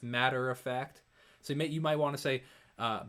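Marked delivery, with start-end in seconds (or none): 0.0-1.0 MATTER OF FACT drawn out slowly; slow consonant demo. Shown as a demonstration. Singer showing viewers the consonants, slow MATTER OF FACT. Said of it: "all these big sibilants".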